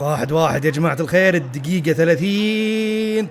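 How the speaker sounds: quick call, then a long stretched last word; commentator-style announcement. Real, not acted.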